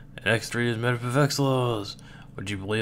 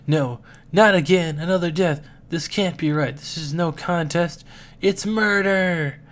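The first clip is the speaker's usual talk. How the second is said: horrified; 5 semitones higher than usual. Acted. Horrified at another death.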